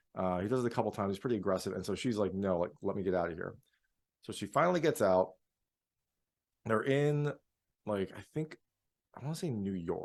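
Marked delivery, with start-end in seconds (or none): none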